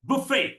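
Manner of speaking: ബുഫേ with "bu" start; long final vowel on ബുഫേ; correct English pronunciation. Shown as a demonstration. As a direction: model ബുഫേ, stressed "fay". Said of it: "നമ്മൾ പറയും ബൊഫേ".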